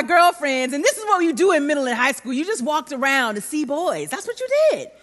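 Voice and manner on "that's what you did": laughing. Real, not acted. Laughing at teen memories.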